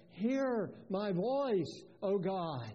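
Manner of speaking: HEAR stressed and drawn out; slowly, with the weight on HEAR; emphatic HEAR. Retold or imitated. Preacher quotes David's prayer, emphatic HEAR. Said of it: "that word "hear" is, is, is emphatic".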